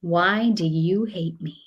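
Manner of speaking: slow, mopey lament; sulky kid. Retold or imitated. Other son to mom, mock sulky. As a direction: drag it out like a betrayed kid. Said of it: "My other son was like".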